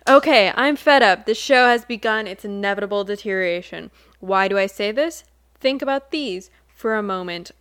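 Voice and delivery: grave, dramatic reading of a forum post; serious dramatic reading. Pretend. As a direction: read it like a solemn proclamation. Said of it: "We can do serious, not silly".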